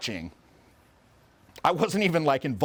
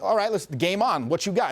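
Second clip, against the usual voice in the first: game on; 5 semitones higher than usual. Acted. Person rising to the banter, playful challenge. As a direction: welcome a battle of wits. Acted start of battle of wits.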